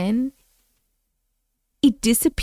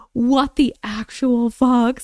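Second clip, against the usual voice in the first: disbelief; slower than usual. Real, not acted. Shocked reaction.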